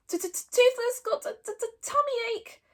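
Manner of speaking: high stuttering little dragon whine; complaining dragon. A narrator's reading. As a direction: whine it with a stammer. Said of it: "he complained".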